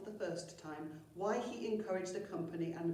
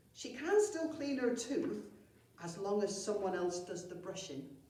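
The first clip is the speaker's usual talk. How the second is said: goblin voice; 2 semitones higher than usual. Acted. Saggy Pant adds helpfully.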